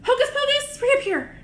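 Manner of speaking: high, loud showy magic words; kids party magician. Pretend. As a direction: cast the spell with flair.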